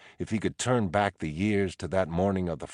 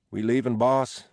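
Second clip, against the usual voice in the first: Chuck's voice; 7 semitones higher, 6 dB louder than usual. Acted. Chuck wakes, calls to Teddy.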